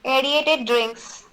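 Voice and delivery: each syllable drawn out for the class; slow dictation. Shown as a demonstration. Teacher slowly dictating a phrase to trainee crew, drawn out. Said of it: "I'll tell you".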